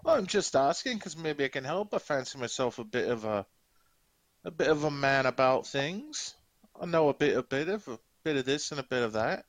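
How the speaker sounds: boastful orc with a lilting Scottish burr; horrible Scottish accent. Acted. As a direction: talk yourself up in mock Scottish. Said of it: "Competing with my horrible Scottish accent".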